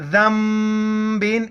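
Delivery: ذم بن slowly, ذ with the tongue between the teeth and م before ب; tongue out for the dhal; ذال with tongue out. Shown as a demonstration. Teacher showing the correct reading, slow careful pronunciation. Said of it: "اس کو زم پڑھیں گے، زن نہیں پڑھیں گے".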